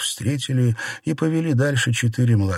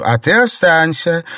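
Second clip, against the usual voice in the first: raised, firm command; ordering; 6 semitones higher, 5 dB louder than usual. A narrator's reading. Baochai ordering Xiangling to stay, firm and raised. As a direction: order her to stay put. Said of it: "приказала она Сянлин".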